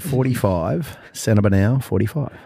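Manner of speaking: slowly spelled out; slow and clear. Shown as a demonstration. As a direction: say it slowly so it's understood. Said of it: "What did you just say?".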